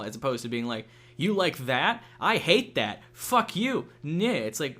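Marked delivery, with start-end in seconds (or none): 1.2-4.3 hammed-up hostile retort, pitched up; raised, mock-belligerent jeering; mock aggressive. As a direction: imitate someone picking a fight over nothing. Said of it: "why you have to be aggressive".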